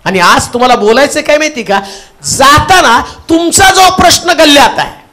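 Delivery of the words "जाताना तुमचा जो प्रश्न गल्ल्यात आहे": preaching shout. Real, not acted. Preacher rising to exhort.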